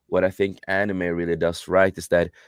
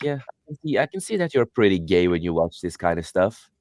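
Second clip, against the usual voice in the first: lightly put-on teasing dad voice; mocking dad. Dad teasing his kid over watching anime, mocking. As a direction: imitate a dad poking fun. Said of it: "my dad started mocking the shit out of me".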